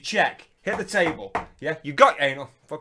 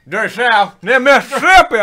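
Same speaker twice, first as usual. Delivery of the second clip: put-on Southern accent; 5 semitones higher, 9 dB louder, slower than usual.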